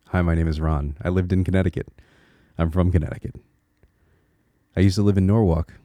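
lightly demonstrated Connecticut accent, rounded vowel in "Norwalk"; old Connecticut accent. Shown as a demonstration. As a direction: slip back into a native Connecticut accent. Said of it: "I had also changed my accent".

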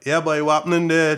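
loud, high, full Trinidadian accent. Shown as a demonstration. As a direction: greet family in a broad Trinidadian accent. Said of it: "with a Trinidadian accent, I switch to that".

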